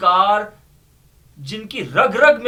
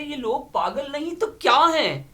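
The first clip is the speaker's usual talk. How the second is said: higher, fast mocking quote of the boss; mocking the master; 7 semitones higher, faster than usual. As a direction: mimic the master's scornful question. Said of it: "ہمارے سرکار کہہ رہے تھے". (سرکار کی نقل میں طنزیہ، اونچا اور تیز لہجہ)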